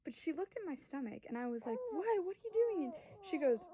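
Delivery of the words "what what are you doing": high, louder self-conscious questioning; mock-alarmed protest; retold startled challenge. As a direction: challenge the stare, imitating your flustered self.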